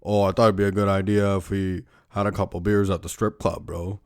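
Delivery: laid-back bro voice, lightly put on; dude bro voice. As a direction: sell the plan like a pushy bro. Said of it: "he's all like".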